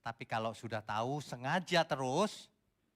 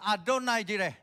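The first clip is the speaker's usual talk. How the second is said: high and loud, too forceful; loud proclamation; 8 semitones higher, 9 dB louder than usual. Shown as a demonstration. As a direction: shout Adonai Jireh like a challenge. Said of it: "gak usah kenceng-kenceng". (seruan keras dan tinggi)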